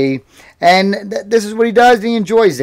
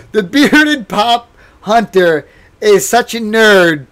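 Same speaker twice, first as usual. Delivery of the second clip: slow, louder teasing through laughter; mock him while you crack up; laughing tease; 4 semitones higher, 6 dB louder, slower than usual. Real, not acted. Teasing a friend about being a nerd, laughing.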